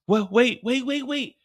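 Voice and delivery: frightened pleading. Acted. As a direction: beg him to stop, pleading.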